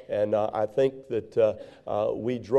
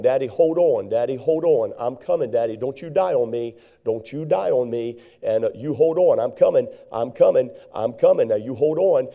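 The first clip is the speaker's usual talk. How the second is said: raised, urgent calling to a dying father; retold yell into phone. Son yelling down the phone to his dying father, urgent and raised. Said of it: "I would yell inside the phone".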